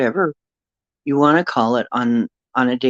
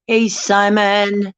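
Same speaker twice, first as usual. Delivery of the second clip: friendly greeting; 7 semitones higher, much slower than usual. Real, not acted. Greeting viewer on stream.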